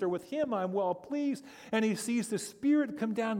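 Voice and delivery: high, loud, rising preacher's voice, swept up in the scene; full-force preaching. Acted. Pastor to congregation, telling of Jesus in the river, in full-force preaching. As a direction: preach it out with mounting fervour.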